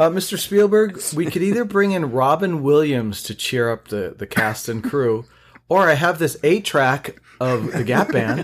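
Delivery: lightly voiced film producer. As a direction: pitch it like a studio exec. Impersonating a producer pitching Spielberg.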